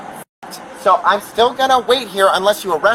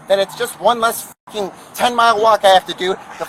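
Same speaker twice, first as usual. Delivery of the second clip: angry. Real, not acted. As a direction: let the frustration spill over. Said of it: "I'm mad".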